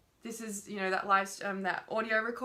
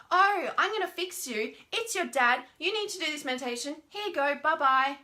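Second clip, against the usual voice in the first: higher, brisk, dismissive fixer voice; mock fixer; 5 semitones higher, 4 dB louder than usual. Mocking the helper who fixes and dismisses, breezy. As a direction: breezily brush them off with a fix. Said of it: "we step in and we go".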